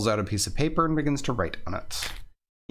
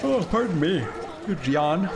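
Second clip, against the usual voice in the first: polite French voice; 5 semitones higher than usual. Acted. Pushing through crowd politely.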